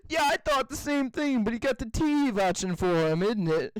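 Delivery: lightly voiced British guard; imitated British guard. Retelling the Family Guy meme, imitated British guard. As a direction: mimic a mildly suspicious Brit. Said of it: "he's like".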